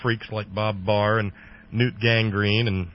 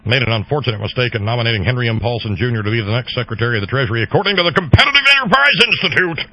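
Thurston Howell voice; 6 dB louder, faster than usual. Retold or imitated. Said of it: "talk with your teeth clenched like Thurston Howell the third".

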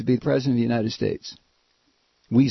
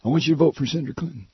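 Bart Kopp; faster than usual. Retold or imitated. Host imitates his hero asking for a vote, quick impression. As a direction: lightly imitate a pal's quick sales pitch. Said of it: "that's the way he talks".

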